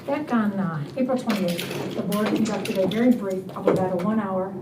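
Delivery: muffled behind a face mask; talking through a full-face mask; through a plague doctor mask. Real, not acted. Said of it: "can you hear me through the mask okay?".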